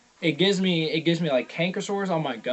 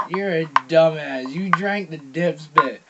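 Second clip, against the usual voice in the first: slow, louder mocking repeat; telling the brother off, slower and louder; mocking scold; 4 dB louder, slower than usual. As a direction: rub it in, drawn out.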